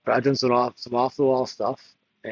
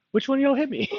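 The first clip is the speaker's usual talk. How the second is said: high, squeaky, bewildered Chris Tucker voice; Chris Tucker impression; 13 semitones higher than usual. Knocked down in Miami, pitched-up Chris Tucker squeal. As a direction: play a dazed guy squealing after a sucker punch. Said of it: "It's like Chris Tucker out there".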